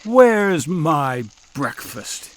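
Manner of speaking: roared. Acted. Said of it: "he roared".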